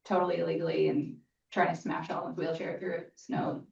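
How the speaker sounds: ordinary talk, nothing marked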